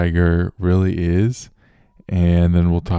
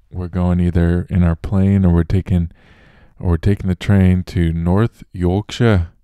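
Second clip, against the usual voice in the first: a lightly attempted Yorkshire accent; a half-hearted stab at a Yorkshire accent. Podcast host jokingly announcing a trip north, in a weak Yorkshire accent. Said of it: "I don't think that was a good accent at all for, for Yorkshire".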